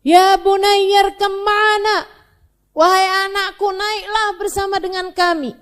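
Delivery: a father pleading loudly with his son; father calling out. Acted. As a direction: call across the water to a lost son. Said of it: "Panggil apa Nabi Nuh?".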